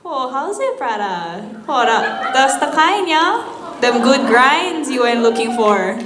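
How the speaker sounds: local Hawaiian pidgin lilt. Shown as a demonstration. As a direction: say it like a Hawaii local greeting a friend. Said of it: "is that English with a Hawaiian accent?".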